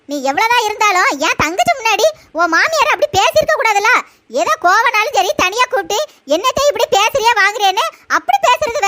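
a lightly voiced young wife excusing herself; daughter-in-law voice. Other daughter-in-law complaining.

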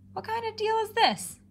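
high, cat-voiced complaint; a cat grumbling at its empty bowl; meowing cat. A narrator's reading. Toby the cat complaining about empty bowls, high cat voice. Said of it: "he meowed".

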